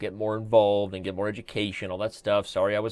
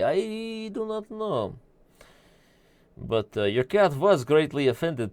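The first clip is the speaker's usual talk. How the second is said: put-on Sasha's broken-English accent. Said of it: "Sasha took over".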